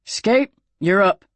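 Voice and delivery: slow, drawn-out call to the next player; the possum calling the next thrower; gruff gambler. A narrator's reading. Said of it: "He turned his attention back to the gamers".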